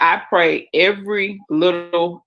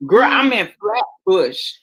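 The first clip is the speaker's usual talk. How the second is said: put-on New York accent. Claiming to be from Flatbush, mock New York accent. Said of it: "I'm talking like I'm from New York".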